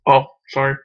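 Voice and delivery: choppy cutting-out connection; glitching audio. Real, not acted. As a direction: voice breaking up online. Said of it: "You keep cutting out".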